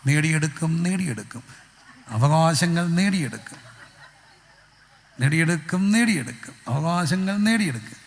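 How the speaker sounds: lightly acted rally chant, repeated rhythmically; mock protest slogan. Preacher voices a crying baby as protester, mock slogan chanting. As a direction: chant it like a little agitator demanding rights. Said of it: "എനിക്ക് കിട്ടിയ ഒരു ഭാവം".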